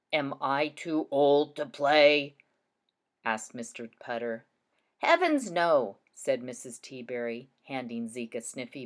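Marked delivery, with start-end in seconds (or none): 0.1-2.4 slow question with a gentle lift at the end; teacher reading an old man's question slowly with a rising tune. Shown as a demonstration. Teacher models a question mark, voice lifting at the end. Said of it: "my voice will go up a bit at the end". 5.0-6.0 lively exclamation. Shown as a demonstration. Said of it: "Let's read that page".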